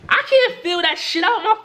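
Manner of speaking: high, laughing protest at a silly request; laughing disbelief. Real, not acted. Telling friends about the form, laughing in disbelief. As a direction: laugh it out, can't believe the form.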